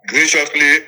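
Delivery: ordinary talk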